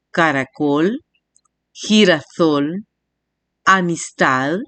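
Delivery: "caracol", "girasol", "amistad", final syllable held long; last-syllable stress. Shown as a demonstration. Teacher showing palabras agudas, final syllable stretched. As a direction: lean on COL, SOL and TAD at each word's end. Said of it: "mayor fuerza de voz en la última sílaba".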